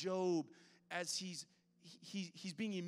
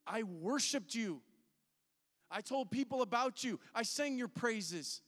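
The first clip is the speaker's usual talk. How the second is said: hurt rising complaint; 4 semitones higher, 4 dB louder than usual. Pretend. Preacher voicing hurt complaint to God.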